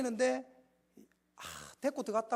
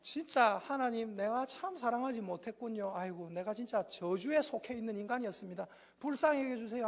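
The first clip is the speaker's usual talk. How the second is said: humble confession; 5 dB quieter than usual. Shown as a demonstration. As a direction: confess quietly to God. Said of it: "인사할 때".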